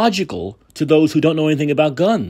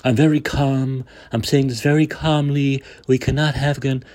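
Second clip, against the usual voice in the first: lightly mimicked overly controlled, phony calm; measured, even delivery with a hint of sinister restraint; Justin Trudeau; 2 semitones lower, 4 dB quieter than usual. Host mocking the politician's gun speech, phony controlled calm. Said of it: "That overly controlled, phony voice he has".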